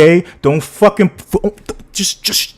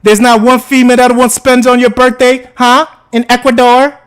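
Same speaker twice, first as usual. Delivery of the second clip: high, teasing sing-song question; mock him with a raised, taunting lilt; 7 semitones higher than usual. Real, not acted. Teasing the birthday boy about Ecuador, mocking sing-song. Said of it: "Why you talking like that?".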